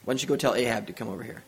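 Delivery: mildly calm, unruffled delivery, quick and easy; lightly voiced calm prophet, no urgency. Elijah tells Obadiah to fetch Ahab, calmly. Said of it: "Elijah just calmly says".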